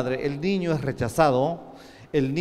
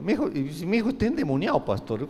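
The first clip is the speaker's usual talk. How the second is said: quick, higher worried mother's plea; anxious mother; 4 semitones higher, faster than usual. Retold or imitated. Mother insisting to the pastor, quick and higher. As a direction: rush it like a frightened mom. Mother voiced in retold story.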